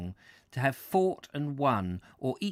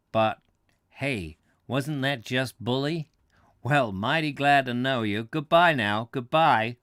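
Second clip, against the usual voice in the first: put-on American accent; 4 dB louder than usual. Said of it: "whispered my friend".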